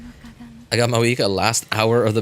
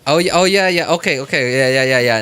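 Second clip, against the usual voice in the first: sudden recognition; 4 dB louder than usual. Real, not acted. Suddenly remembering, loud agreement.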